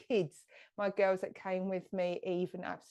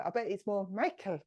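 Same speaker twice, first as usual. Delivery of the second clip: light, rough attempt at Irish; attempted Irish accent. Shown as a demonstration. Medium greeting an Irish viewer by name, attempted Irish accent. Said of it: "that is my attempt of an Irish accent".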